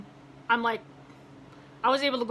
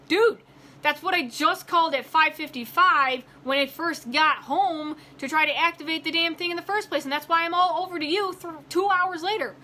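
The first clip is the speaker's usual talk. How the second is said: higher-pitched, fed-up retelling of a protest; exasperated complaint; 4 semitones higher than usual. Retold or imitated. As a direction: protest in exasperation, leaning on each detail. Retold angry phone complaint.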